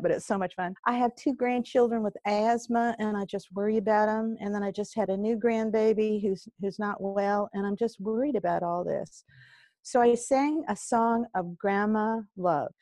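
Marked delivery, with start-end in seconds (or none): 0.9-9.2 playful put-on Southern accent, not quite convincing. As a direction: lightly imitate a Georgia store clerk's Southern accent. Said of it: "the horrible Southern accent".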